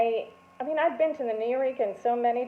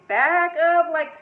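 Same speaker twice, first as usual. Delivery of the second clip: higher, louder, bubbling up with a laugh; nervous laughter; 7 semitones higher, 5 dB louder, slower than usual. Retold or imitated. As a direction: let the giggle burst through. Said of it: "uncontrollable nervous laughter".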